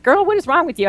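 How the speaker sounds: pitched well up, mock scolding a friend; teasing disbelief. Teasing a laughing client.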